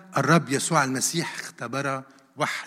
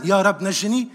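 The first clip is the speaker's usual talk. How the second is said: mild acted cry, slightly raised; cry of faith; 4 semitones higher, 4 dB louder than usual. Any believer calls on the Lord for rescue, mildly crying out. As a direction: call out the plea with restrained force. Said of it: "كل إنسان بيصرخ صرخة الإيمان".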